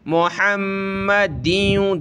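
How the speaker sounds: मुहम्मदिन with the meem held; मुहम्मदिन, press and hold the meem; doubled meem. Shown as a demonstration. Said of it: "ये मीम को जमाना है". (मीम जमा कर)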